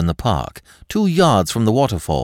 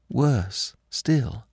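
higher, soft dread, drawn out; dismayed; 4 semitones higher, 6 dB quieter than usual. A narrator's reading. Frightened girl realizing a further danger, dismayed. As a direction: let the dread linger on WORSE, pitched up. First take before the lowered repeat.

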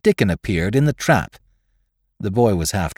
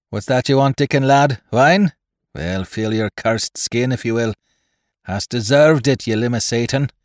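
gruff pirate gunner; 2 semitones higher than usual. Acted. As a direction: bark it like a coarse sailor. Gunner Basil voiced, rough.

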